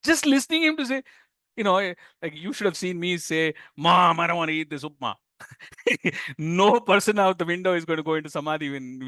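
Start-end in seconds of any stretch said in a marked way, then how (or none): 3.8-5.2 whiny complaint. Retold or imitated. Speaker moaning to mom about food, mock complaint. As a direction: imitate your own grumbling at home. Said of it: "hear me speak like that".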